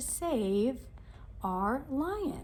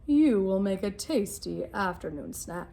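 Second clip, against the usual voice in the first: lion voice; 3 semitones lower, 5 dB louder than usual. Acted. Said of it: "said the lion".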